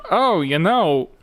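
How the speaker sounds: slow, halting mock Walken drawl; lightly voiced Walken, slow pauses; Christopher Walken impression. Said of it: "he'd just be behind the scenes like".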